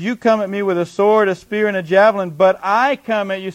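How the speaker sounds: bold, forceful challenge; confident challenge. Acted. Preacher as David facing the giant, confident. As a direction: square up to the enemy with total confidence. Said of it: "see the confidence?".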